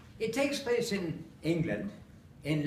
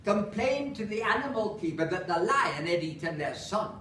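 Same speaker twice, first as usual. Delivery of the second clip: lightly northern Lancashire lilt for a comic recitation; Lancashire accent. Acted. Performer reciting Holloway monologue to audience, Lancashire accent. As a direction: recite it in broad Lancashire English. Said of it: "so I have to do it in an accent".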